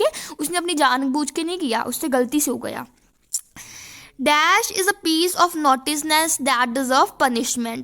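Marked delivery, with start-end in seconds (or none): 4.2-7.8 slow, careful reading of the text line; slow dictation read. Shown as a demonstration. Teacher to students, reading the passage slowly. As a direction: read it out slowly for the class to copy.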